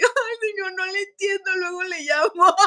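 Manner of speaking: high, flustered apology, laughing; flustered brush-off. Retold or imitated. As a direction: hurry off the phone, embarrassed. Retells hanging up, embarrassed. (yo al señor del dominio, nerviosa y apenada)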